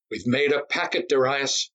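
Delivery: high, gleeful exclaim; excited cry. Acted. Myron tosses cash on the bed, crying out with glee. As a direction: crow over the winnings. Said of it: "he cried".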